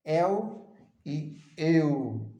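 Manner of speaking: "eu e eu" stretched very slowly; slow demo of the diphthong "eu"; drawn-out eu. Shown as a demonstration. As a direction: hold each "eu" long for the class. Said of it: "Veja que esse aqui é o eu".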